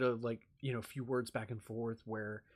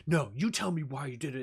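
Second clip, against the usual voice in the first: louder, insistent demand; demanding boss; 6 dB louder than usual. Retold or imitated. Boss pressing the employee for a reason, louder demand. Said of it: "getting yelled at by a boss".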